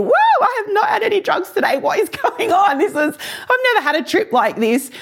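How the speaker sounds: high, hurried astonished thought; retold amazement. Speaker recalls love flooding the room, retold astonishment.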